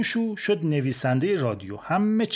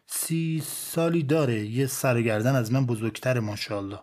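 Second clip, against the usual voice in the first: put-on old father; 2 semitones lower than usual. Old father answering the army doctor.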